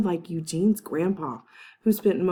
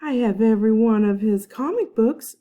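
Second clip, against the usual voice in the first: proudly; 5 semitones higher, 6 dB louder than usual. A narrator's reading. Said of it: "Charlie proudly said".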